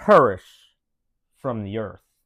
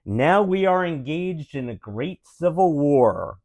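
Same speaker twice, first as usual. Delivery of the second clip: Abraham Lincoln voice. Acted. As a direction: read it like a president at a memorial, with only a hint of Lincoln. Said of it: "in Abraham Lincoln voice".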